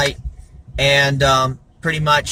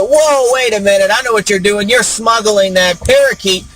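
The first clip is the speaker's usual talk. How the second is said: higher-pitched, lightly acted accusation; mock indignation; 4 semitones higher than usual. Pilot confronts passenger over hidden parakeet, mock indignant. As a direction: play a pilot catching a smuggler out.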